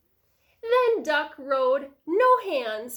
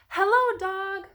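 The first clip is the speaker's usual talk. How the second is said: Duck calling hello; 7 semitones higher, 5 dB louder than usual. A narrator's reading. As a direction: call out as a storybook duck. Duck greets Dog in story.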